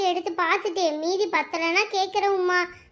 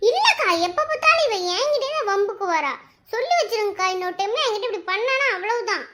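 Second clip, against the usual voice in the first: cross complaint; 3 semitones higher than usual. Acted. Complaining about the prankster.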